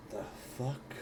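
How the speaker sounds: soft, stunned question; baffled disbelief. Acted. Player waves a hand through the dissipating smoke, quietly baffled. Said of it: "put my hand through it, like".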